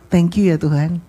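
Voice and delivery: low, smiling thanks; senyum bersyukur. Acted. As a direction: thank God contentedly. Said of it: "Senyum aja". (bersyukur sambil tersenyum)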